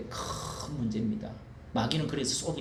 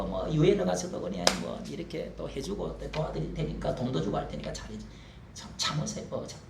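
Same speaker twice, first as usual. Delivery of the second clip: mock grovelling plea. Mock pleading to communists.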